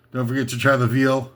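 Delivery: deadpan lounge-singer plug; lounge act patter. Pretend. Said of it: "That's my imitation of a singer".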